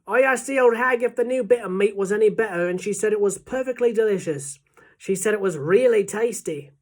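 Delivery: loud, lively report, easing slightly; waiter shouting news. A narrator's reading. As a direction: call the news out to the kitchen gang. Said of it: "he shouted".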